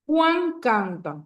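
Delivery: "Juan canta" said slowly; slow example. Shown as a demonstration. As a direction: stretch the two words to show them. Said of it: "al lado del verbo". (despacio, marcando las palabras)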